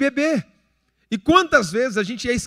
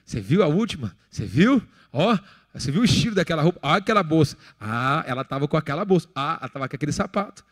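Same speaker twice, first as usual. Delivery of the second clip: gossiping woman; 5 semitones lower than usual. Retold or imitated. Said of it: "a mulher gosta de uma fofoquinha".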